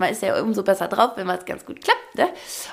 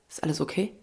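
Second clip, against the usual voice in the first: softly asked, lower, caring; concerned question; 7 semitones lower, 10 dB quieter, faster than usual. Retold or imitated. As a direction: quietly check on someone. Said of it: "guckt mich an und sagt".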